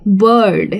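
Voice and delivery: बर्ड drawn out slowly; slow demonstration of बर्ड. Shown as a demonstration. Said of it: "धीरे कह रही हूँ".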